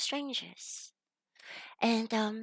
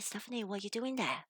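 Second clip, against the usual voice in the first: higher-pitched, imitating a teacher calling someone out; Jennifer's coaxing call; 3 semitones higher than usual. Teacher calling her student out of the rubbish dump, higher coaxing imitation. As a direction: voice a rescuer coaxing, pitch climbing at the end. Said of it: "Jennifer, came and shined a torch down and said".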